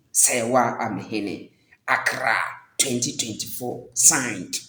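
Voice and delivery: measured, formal public-apology reading; formal statement read. Acted. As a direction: read it like an official press statement.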